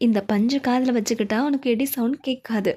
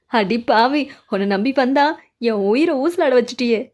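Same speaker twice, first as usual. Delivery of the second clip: loud betrayed wail; 4 dB louder than usual. Acted. ஏமாற்றப்பட்டு கோபத்தில் கத்தல்.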